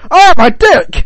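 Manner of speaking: high, loud mock scream of pain; pained yell. Guy at the end of the theme, screaming in pain. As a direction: yell out in agony, hammed up. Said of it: "a guy goes".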